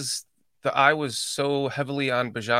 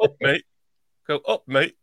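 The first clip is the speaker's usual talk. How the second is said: louder learner's Yorkshire "Up, mate"; imitated Yorkshire accent; 5 dB louder than usual. Host checks his copy with co-host, louder Yorkshire attempt. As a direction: copy the Yorkshire greeting with more volume. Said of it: "Like that".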